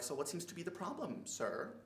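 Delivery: lightly voiced, smug store manager; condescending manager. Manager comes over to the cheese customer, mildly condescending. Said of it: "is so condescending".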